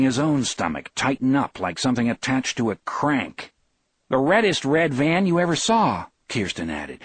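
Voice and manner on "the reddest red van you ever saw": high-pitched, emphatic eyewitness claim; excited reporting. A narrator's reading. Adding to the report of the red van, excited emphasis. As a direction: pipe it up high, stressing how red.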